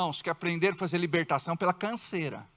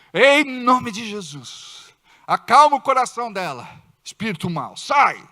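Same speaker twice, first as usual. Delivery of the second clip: bind the spirit with authority; rebuking prayer; 5 dB louder than usual. Shown as a demonstration. Husband rebuking the spirit in his wife, firm loud command. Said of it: "ele entrar lá no banheiro e repreender".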